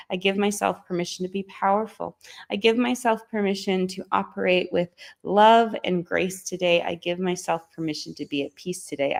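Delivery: rhythmic, steady affirmation chant; guided affirmations. Acted. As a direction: recite each permission like a mantra. Recites affirmations to viewers.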